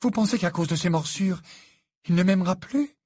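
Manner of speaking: high, loud indignant question; imperious. A narrator's reading. Fiancée asking if bites could end his love, imperious. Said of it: "d'un ton impérieux".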